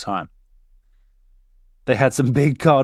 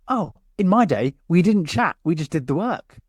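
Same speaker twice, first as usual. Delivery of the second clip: jovial; 6 semitones higher than usual. Retold or imitated. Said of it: "in a real jovial manner".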